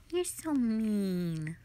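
pouty whine. Acted. Pouting at partner after bonk.

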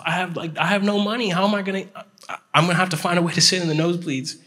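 high-pitched fretting, retold; mock panic with the pitch pushed up; worried. Retelling his worried thoughts at desk.

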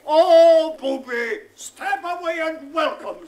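a lightly voiced scornful girl, loud high start; mock Lydia. Father mocking Lydia's reply to Jack, lightly voiced. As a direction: mimic her brushing him off. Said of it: "says she".

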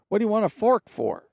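high, loud, disbelieving cry; a sharp shout of surprise; incredulous. Acted. Cannibal chief can't believe the fork request, incredulous shout.

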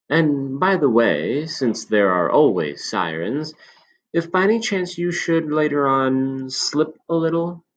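put-on a knowing old shopkeeper confiding; old man. Old man warns kindly.

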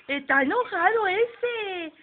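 slow, drawn-out sing-song teasing; teasing baby talk. Acted. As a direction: stretch it out to tease the pouting baby.

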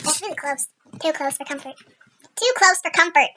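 attempted English accent. Player slipping into an English accent by accident. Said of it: "trying to do English accent".

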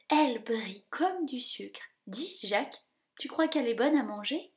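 a hungry mouse eyeing a treat; greedy little mouse. Acted. Gus asking Jacques about eating the slipper, mouse voice.

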